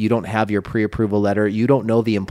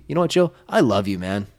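brotherly love. Shown as a demonstration. Agent showing co-host how inflection works, brotherly. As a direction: tell a buddy you love him like a brother. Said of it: "It's like a brotherly love".

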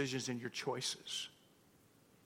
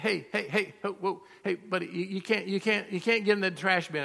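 raised, higher voice calling hey buddy; calling out to stop him; 6 semitones higher, 5 dB louder than usual. Retold or imitated. Pastor calling out to a homeless man digging in the trash, raised and higher. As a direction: call out across the lot to stop him.

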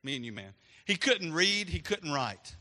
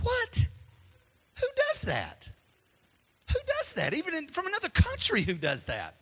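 shocked disbelief; 10 semitones higher than usual. Retold or imitated. Retold shock at the lawn.

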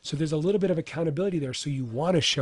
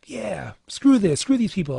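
mock angry; 5 semitones higher than usual. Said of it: "I'm getting angry".

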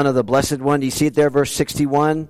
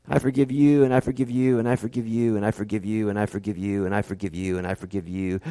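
each I forgive you softer and lower until almost gone; fading forgiveness; 8 semitones lower, 7 dB quieter, faster than usual. Retold or imitated. Preacher voicing Jesus on the cross, fading to a hush. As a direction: let the words drain away like a dying man.

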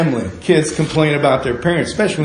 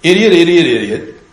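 mock grumbling. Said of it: "They said".

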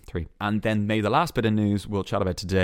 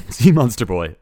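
laughing mock title; 4 semitones higher, 9 dB louder than usual. Shown as a demonstration. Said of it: "Why don't you call it Sea Monster Boy?".

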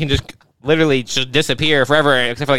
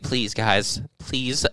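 mock pleading. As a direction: beg your few followers, escalating into hammed-up desperation. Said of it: "someone who has, like, five thousand followers being like".

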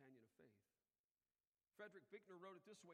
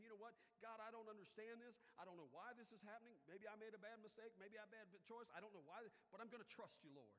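raised, loud pleading to God; impassioned prayer; 5 semitones higher, 5 dB louder than usual. Acted. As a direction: pour out doubts, then resolve to trust. Voices a doubter's prayer to God.

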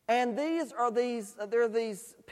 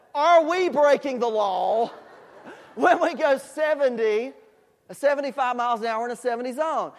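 laughing through the question, louder; 5 dB louder than usual. Real, not acted. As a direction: ask it while breaking into laughter. Preacher laughs while asking.

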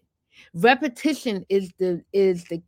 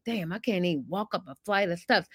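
tired self-talk; 2 semitones lower, 5 dB quieter, faster than usual. Retold or imitated. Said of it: "you're tired and you're like".

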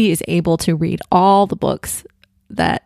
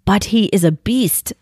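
helpless; 3 semitones higher than usual. A narrator's reading. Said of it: "said Father helplessly".

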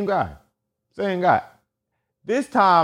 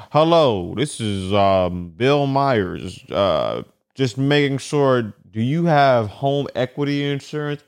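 lower, halting sales-call voice; telemarketer voice; 4 semitones lower, slower than usual. Retold or imitated. Telemarketer calling about insurance, lower halting pitch. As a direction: read it like a bored cold caller. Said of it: "how do we feel about collect calls".

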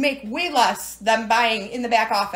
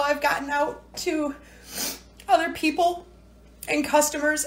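real crying. Real, not acted. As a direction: voice breaking with real tears. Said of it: "I'm sorry to cry my eyes off like this".

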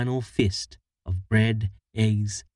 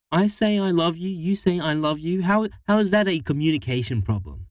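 incredulous; 8 semitones higher than usual. Acted. Charlie argues, incredulous.

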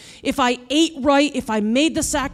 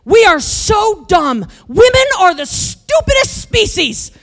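angry rant; 8 semitones higher, 4 dB louder than usual. Retold or imitated. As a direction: shout your frustration at the injustice. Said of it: "I am so mad at this point".

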